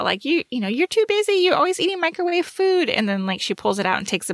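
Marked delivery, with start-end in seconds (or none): 0.2-2.9 high, fast nagging mother; nagging mom. Retold or imitated. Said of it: "her mom's giving her a hard time".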